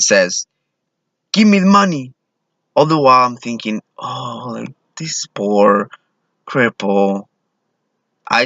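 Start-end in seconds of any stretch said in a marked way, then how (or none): 1.3-2.1 much higher, mock robber demand. Robber to Subway clerk at the register, demanding. 4.0-7.3 slow, softened mock pity; pitying thought. Clueless clerk pitying the man to himself, tender.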